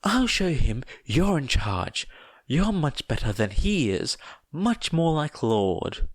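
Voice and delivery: lightly voiced eager giant; a hint of a devoted giant.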